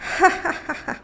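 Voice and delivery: breathy, menacing high laugh; villainous patil laughing menacingly; frightening laugh. A narrator's reading. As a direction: laugh like a threat. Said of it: "आबा भयान हसले".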